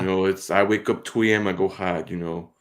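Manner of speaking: lightly voiced Boston Wahlberg bravado; a hint of a Boston tough guy bragging; Mark Wahlberg impression. Mocking Mark Wahlberg's workout talk, light Boston accent. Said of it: "Mark Wahlberg".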